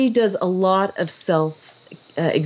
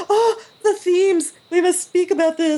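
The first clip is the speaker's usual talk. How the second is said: mock pompous scholar; 12 semitones higher than usual. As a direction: ham up a lofty literary voice. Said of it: "was like".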